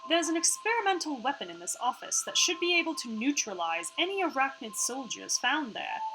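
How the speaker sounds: lifted part-Australian hologram voice; Iris. Acted. Hologram explains the gate to players, part-Australian Iris voice. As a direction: explain precisely with a slight Australian put-on accent.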